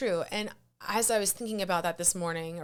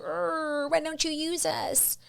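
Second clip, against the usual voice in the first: higher, slow sulky whine with a groan; whiny social media apps; 9 semitones higher, slower than usual. Pretend. Social media apps whine at the neglectful creator, sulky and slow. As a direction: play a needy app complaining it's ignored. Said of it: "the algorithm, these social media apps are mad at you".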